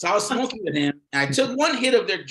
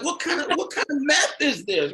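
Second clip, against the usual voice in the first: laughing mock outrage; 11 semitones higher than usual. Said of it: "I'm like".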